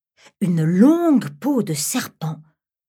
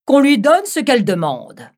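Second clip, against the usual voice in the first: put-on higher, louder young woman's voice; bride's voice; 5 semitones higher, 6 dB louder than usual. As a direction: speak as the demanding bride.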